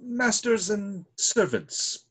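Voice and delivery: drawn out and pointed; a butler spelling it out for his master; slow, deliberate. Acted. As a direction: lay each word down slowly for him.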